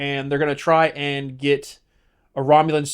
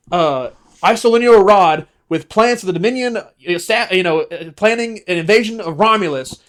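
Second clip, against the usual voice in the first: raised, smug explanation; Garak voice; 4 semitones higher, 4 dB louder than usual. Retold or imitated. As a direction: explain the scheme, smug and loud. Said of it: "and he's like".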